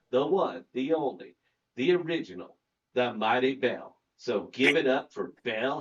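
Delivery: announcer build-up, punching each "the"; hype host intro. Acted.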